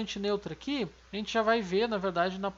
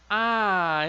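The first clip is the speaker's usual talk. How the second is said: A called out louder; quiz answer; 7 dB louder than usual. Shown as a demonstration. Teacher answering the quiz, loud. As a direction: call the answer out.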